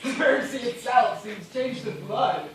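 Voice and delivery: laughing madly while speaking of blood; unhinged laughing words; delirious laughter. Acted. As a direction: giggle through it, losing your mind. Delirious castaway sees red sea.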